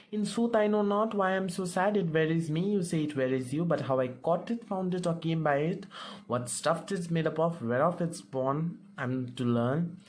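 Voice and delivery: brisk reread. Shown as a demonstration. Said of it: "we'll read the speech once more".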